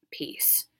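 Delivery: breathy whispered sign-off; whispered smug farewell; whispered peace. Acted. Sign-off after sealing him.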